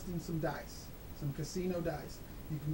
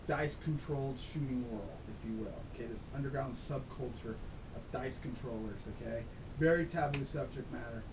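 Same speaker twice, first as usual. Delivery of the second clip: electronically altered voice, pitched down; disguised deep voice. Real, not acted. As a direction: voice run through a disguiser. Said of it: "this is not my real voice. I mean, I've got a disguiser on".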